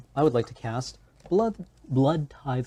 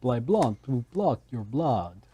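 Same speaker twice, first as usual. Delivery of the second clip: vampire blah talk; slower than usual. Pretend. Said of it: "talking like this".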